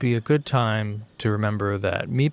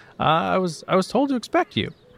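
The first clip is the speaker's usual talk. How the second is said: put-on pitched-up young man's voice, calling out; 9 semitones higher than usual. Voicing a young man calling out to the exchange students: young man NPC voice. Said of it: "who trots on out, uh, and says".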